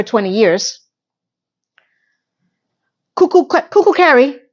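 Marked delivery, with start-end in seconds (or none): 3.1-4.4 high, teasing singsong nickname; mocking singsong. Real, not acted. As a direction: taunt her name playfully.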